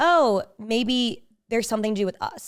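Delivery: ordinary delivery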